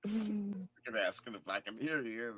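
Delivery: slow whispered aside; whispering. Real, not acted. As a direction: whisper it under the breath. Muted mic aside.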